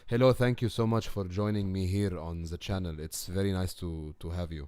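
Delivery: light English accent, politely welcoming viewers; a lightly put-on English accent, gracious host; okay English accent. Shown as a demonstration. Showing off her English accent with a polite channel greeting. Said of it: "an okay English accent".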